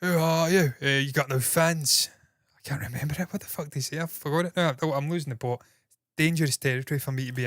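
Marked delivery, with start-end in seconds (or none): 0.0-2.1 mock Cockney. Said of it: "Little Cockney guy".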